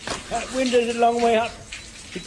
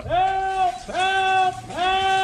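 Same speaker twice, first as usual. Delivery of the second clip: high shouted cries; calling for help; 6 semitones higher, much slower than usual. Acted. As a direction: yell for rescue from the wheel. Stuck on water wheel.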